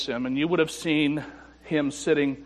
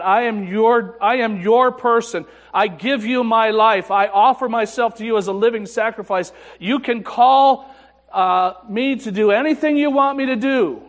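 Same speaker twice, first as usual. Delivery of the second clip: put-on louder and higher, an earnest young man swearing his life to God; fervent vow; 7 semitones higher, 6 dB louder than usual. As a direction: pour the promise out with full fervour.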